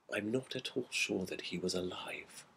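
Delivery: slow, hushed and half-whispered; fearful whisper. A narrator's reading. MacLeod at the window, telling his friend, in a hushed whisper. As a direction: breathe it out as if afraid to hear it. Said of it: "whispering as if he hardly liked to hear himself".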